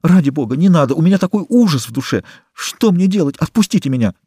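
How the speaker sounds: high, frightened plea; panicked, begging to be let go; terrified. A narrator's reading. Susanna tearing free of Eugene, high frightened plea. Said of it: "в ужасе вырвалась".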